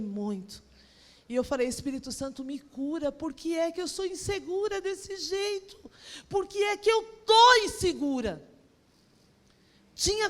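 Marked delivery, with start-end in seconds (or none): 1.7-8.5 pleading prayer. Retold or imitated. Retold tearful prayer, building.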